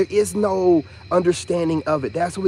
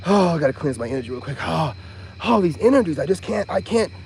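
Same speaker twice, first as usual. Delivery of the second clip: mock dramatic reader. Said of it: "They're so dramatic with it".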